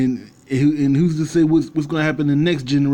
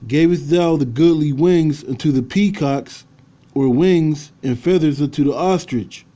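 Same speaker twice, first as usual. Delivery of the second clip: scripture reading. Acted. Reads scripture aloud.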